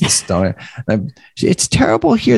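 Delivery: clumsy put-on Italian woman's accent. Retelling a talk with an Italian woman, speaker is imitating an Italian woman. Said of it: "I'm going to do a great disservice to her voice".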